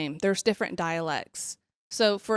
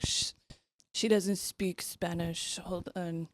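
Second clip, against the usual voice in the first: hushed aside; 7 dB quieter than usual. Retold or imitated. Husband hushing the waiter in a soft aside. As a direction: hush the listener while covering for her. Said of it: "he's like".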